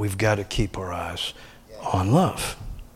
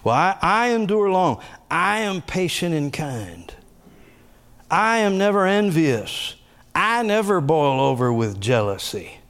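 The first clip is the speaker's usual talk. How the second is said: spoken confession; 4 semitones higher than usual. Shown as a demonstration. Pastor reading personalized scripture to church, high declaring. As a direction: proclaim each line as your own creed. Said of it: "I'd speak it out loud like the confessions".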